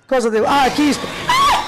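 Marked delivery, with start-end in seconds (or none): 1.3-1.6 high piercing shriek; frightened scream. Real, not acted. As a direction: shriek at a sudden scare. Mother terrified in VR game. (urlo acuto di terrore)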